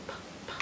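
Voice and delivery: "P, p, p" as tiny unvoiced pops; letter P sound. Shown as a demonstration. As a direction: puff "P, p, p" like popping balloons. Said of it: "like you're popping a balloon".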